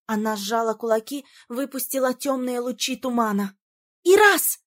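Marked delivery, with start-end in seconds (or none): 4.0-4.6 loud, high shout of a name. A narrator's reading. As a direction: yell his name to warn him. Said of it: "крикнула я". (громкий высокий крик имени)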